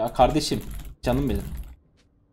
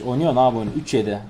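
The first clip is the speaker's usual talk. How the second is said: ordinary delivery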